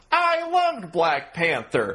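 put-on booming, very loud, high voice. Speaker reenacts how they ended a conversation, retelling saying it very loudly. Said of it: "so I just said very loudly".

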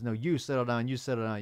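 plain

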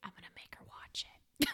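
whispered aside. Telling the listener a plan about the other speaker: whispering. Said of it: "I'm whispering to the listener".

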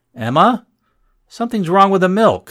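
shaky, high, forced calm that keeps slipping. A woman calling to Emma after the basket clangs, trying to sound calm and failing. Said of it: "trying to sound calm and not succeeding very well".

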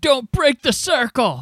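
put-on monster voice with Italian accent. Retelling how a character tried to scare Sandra, monster voice with thick Italian accent. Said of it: "he's trying to do some sort of monster voice, but also he has a thick Italian accent".

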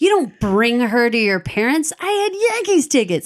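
acted-out anger, put-on pissed-off tone. Retelling what happened, the speaker quotes a furious man, mock-angry retelling. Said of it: "And he's pissed".

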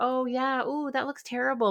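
acted, half-hearted, distracted, absent-sounding, high pitch. Retelling answering her daughter while doing something else: imitating a distracted reply. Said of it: "I'm kind of half responding to her".

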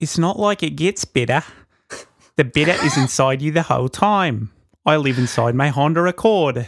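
put-on New Zealand accent. Asked to repeat the line with a Kiwi accent; Kiwi accent. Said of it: "can you say that with a Kiwi accent".

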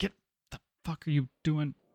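high, irritated, annoyed and challenging tone. A player voices their character's reaction during a group game scene: annoyed. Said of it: "so I'm going to be annoyed".

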